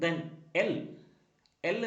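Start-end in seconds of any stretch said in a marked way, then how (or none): 1.7-1.8 "l" as "luh"; letter sound l. Shown as a demonstration. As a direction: say "l" as its sound, not "el". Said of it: "pronounce ചെയ്യുന്നത്".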